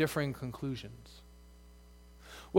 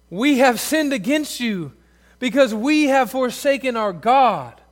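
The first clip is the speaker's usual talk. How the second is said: pleading confession; 7 semitones higher, 8 dB louder than usual. Acted. Israel's confession read with force.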